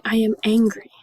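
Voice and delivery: pretend angry. Teacher models the word angry for students, pretend anger. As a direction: push out a mock-angry statement. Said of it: "Another word is mad".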